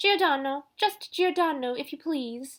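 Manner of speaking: high, loud, nasal dancing master's tone. The narrator mimics her dancing master while saying goodbye; nasal Giordano imitation. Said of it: "imitating my dancing master's nasal tone of voice".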